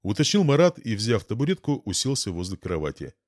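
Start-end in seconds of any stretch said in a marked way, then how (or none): none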